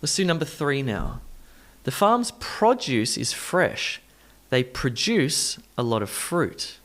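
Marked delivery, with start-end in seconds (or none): 1.8-6.8 PRO-duce first, then pruh-DUCE; shifted stress. Shown as a demonstration. Teacher models number three, shifting stress. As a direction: shift stress in "produce" from first syllable to second. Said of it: "doing some stress shifting first".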